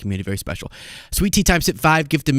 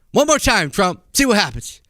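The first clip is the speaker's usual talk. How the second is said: mock growled threat; 6 semitones higher than usual. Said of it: "Anyway, so".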